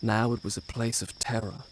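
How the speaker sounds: story narration. A narrator's reading. Prince narrates his tale.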